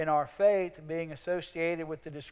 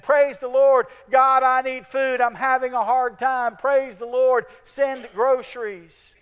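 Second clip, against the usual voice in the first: high, loud plea to heaven; a hammed-up porch prayer, loud and high; calling out a prayer; 7 semitones higher, 7 dB louder than usual. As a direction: cry out praise and ask for food. Lady calls out her prayer.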